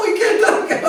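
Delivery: put-on playful boys refusing to tell; teasing cowherd boys. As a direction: tease him, keep the secret.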